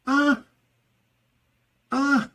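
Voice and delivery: short high-pitched ahs; cries of regret. Shown as a demonstration. Teacher showing regret with head shaking, regretful. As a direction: let out clipped regretful cries.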